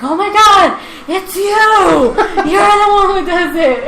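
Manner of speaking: high, loud, laughing shock at the discovery; excited high accusation. Retold or imitated. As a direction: squeal it like you caught the culprit. Classmate voiced catching her drawing.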